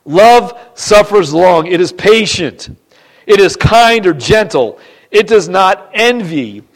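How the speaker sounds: slow, measured verse reading; emphatic scripture reading. Real, not acted. Preacher reading the love chapter to church, measured and emphatic. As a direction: set each phrase apart with firm emphasis.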